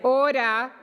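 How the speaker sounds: shouting order order. Real, not acted. President calling chamber to order.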